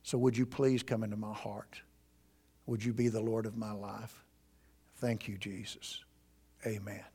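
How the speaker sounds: soft, hushed prayer; sinner's prayer. Shown as a demonstration. Pastor modeling the sinner's prayer for a seeker, soft and hushed. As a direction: pray it gently and humbly. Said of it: "You go to Jesus and you say".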